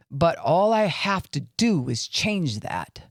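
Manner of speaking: angry lady voice. Shown as a demonstration. Podcaster shows how her voice could turn, mildly angry. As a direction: let the tone harden into the angry lady. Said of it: "listen to the angry lady".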